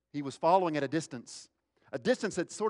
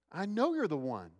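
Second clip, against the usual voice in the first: raised-pitch, certain accusation; single him out in a higher voice; accusing; 6 semitones higher than usual. Acted. Bystander confronting Peter a third time, accusing.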